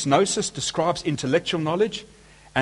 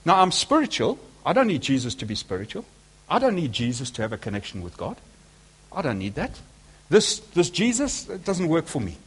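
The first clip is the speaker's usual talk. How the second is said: imitating spiritual skeptic. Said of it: "They say to me".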